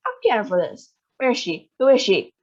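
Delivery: furious demand. Acted. Bruno furious at witch.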